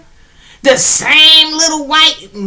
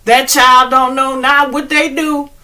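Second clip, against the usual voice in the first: pleading prayer. Retold or imitated. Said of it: "I'll be like".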